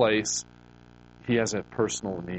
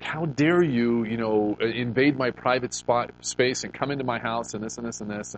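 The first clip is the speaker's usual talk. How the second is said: mock indignant quote. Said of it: "left me this scathing message".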